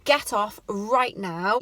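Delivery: slow, mock-harsh "stupid girl" right in her face; retold in-face scolding. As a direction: lean in and scold her slowly, mildly acted. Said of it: "leant down and said in her face".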